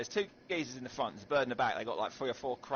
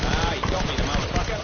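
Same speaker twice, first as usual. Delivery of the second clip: put-on Australian accent; 3 semitones higher, 9 dB louder than usual. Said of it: "be Australian this whole match".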